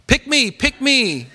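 slow, high, laughing "pick me"; Arnold Horshack. Retold or imitated. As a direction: beg to be chosen through a laugh, way up high. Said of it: "Remember Arnold Horshack".

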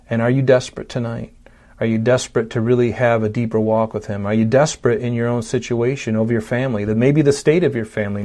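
gentle appeal. Acted. Preacher softly asks the congregation if they are desperate. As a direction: lean in and ask them personally. Intimate altar-call appeal.

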